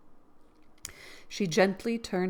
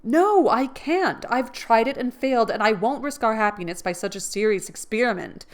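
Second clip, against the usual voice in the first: higher, louder, final; firm refusal; 3 semitones higher, 6 dB louder than usual. Acted. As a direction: shut it down kindly but firmly.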